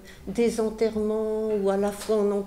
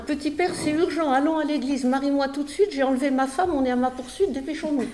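higher, louder, pressing urgency; young groom begging the priest to marry him now, higher and louder; urgent plea; 5 semitones higher, 4 dB louder, faster than usual. Retold or imitated. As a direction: beg the priest to hurry, breathless with haste. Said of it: "il le dit comme ça".

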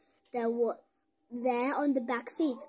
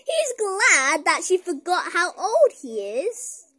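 laughing; 6 semitones higher, 12 dB louder, slower than usual. Real, not acted. Laughing comment to kids.

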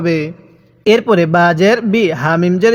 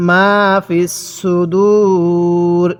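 very slow, with a long held u before the closing r; Quran recitation demo; much slower than usual. Shown as a demonstration. Teacher modelling the verse ending, drawn-out recitation. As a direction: stretch the last word right out. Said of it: "এরকমভাবে শিখব".

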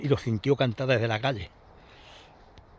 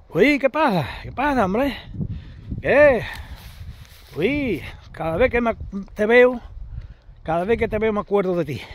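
a lightly voiced builder, calling out in delight; surprised builder greeting; 5 semitones higher than usual. Builder greets the narrator years later.

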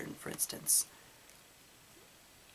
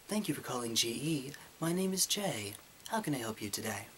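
customer service voice. Shown as a demonstration. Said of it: "when I do customer service for my job".

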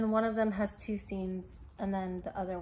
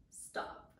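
whisper; 8 dB quieter than usual. Real, not acted. Gushing over new shoes.

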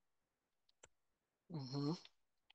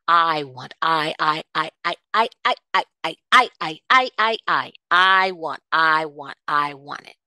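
greedy stammering want; 5 dB louder than usual. Retold or imitated. Mimicking a possessive parent.

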